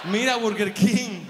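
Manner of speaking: slow, loud blurted answer; hammed-up pageant girl; mock contestant. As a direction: blurt it out like a starving beauty queen.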